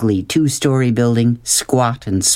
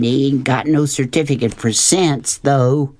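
dark; 3 semitones higher than usual. Acted. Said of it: "said Willie Mae darkly".

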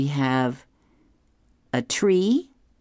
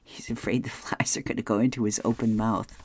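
whispered aside; 4 dB quieter than usual. Real, not acted. Reader whispering the punchline explanation to listeners, whispered.

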